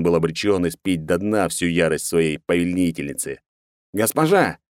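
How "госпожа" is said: high, cracking cry from strain; cracked strained voice. Acted. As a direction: voice splitting under tension. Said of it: "надтреснутым от напряжения голосом".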